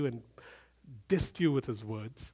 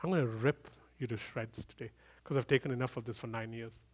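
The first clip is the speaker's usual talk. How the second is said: softer, lower private thought; inner thought; 4 semitones lower, 7 dB quieter than usual. Retold or imitated. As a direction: mutter it to yourself, holding back anger. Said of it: "I'm thinking to myself".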